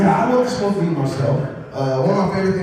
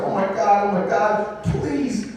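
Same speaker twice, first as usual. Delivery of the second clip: imitating the mom; 4 semitones higher, 4 dB quieter, slower than usual. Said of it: "She's just like".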